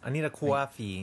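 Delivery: tentative Long Island accent with a rounded "coffee"; Long Island accent attempt. Shown as a demonstration. Host testing whether it passes, unsure Long Island accent. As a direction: try the line as a Long Islander. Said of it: "Is that Long Island?".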